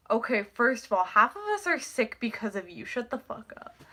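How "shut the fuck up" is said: usual speaking voice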